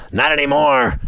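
sudden high-pitched gotcha; mock surprise. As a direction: jump way up for the punchline. Mocking previously unbeaten Gophers.

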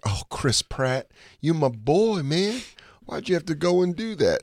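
hammed-up phony concern for a famous pal; phony celebrity sympathy. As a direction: lay it on thick like a fake-sad famous friend. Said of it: "you were just so phony about it".

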